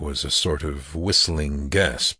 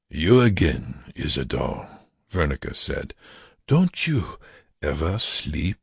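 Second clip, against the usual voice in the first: lazy and quizzical; 2 semitones lower than usual. Acted. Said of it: "Vernica spoke lazily, quizzically".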